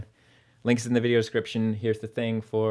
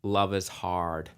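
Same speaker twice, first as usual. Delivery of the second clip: slow North American "Love is hard" with a clear R in "hard"; Canadian-style "hard", R sounded; North American accent; 4 semitones lower, slower than usual. Shown as a demonstration. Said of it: "as opposed to".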